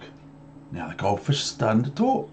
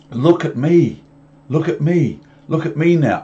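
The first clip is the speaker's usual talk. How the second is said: showing-off cat; 6 semitones higher, 5 dB louder than usual. Acted. Cat shows off.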